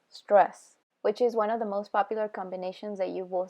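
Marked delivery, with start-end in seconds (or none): 0.1-0.8 "stress" said much louder as the stressed beat; demo of stress. Shown as a demonstration. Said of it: "unstressed, stress".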